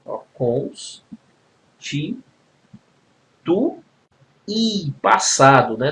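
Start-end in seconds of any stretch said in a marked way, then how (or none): 0.3-4.9 "constitu-, i" in drawn-out separate syllables with pauses. Shown as a demonstration. Teacher demonstrating a hiatus, syllable by syllable. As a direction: break "constitu-, i" apart, the final i alone and stressed. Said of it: "Você tá lendo um hiato".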